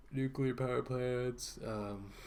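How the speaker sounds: words stretched by a yawn. Real, not acted. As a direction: yawn while speaking. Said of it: "sorry, I was yawning".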